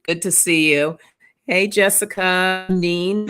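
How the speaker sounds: ordinary talk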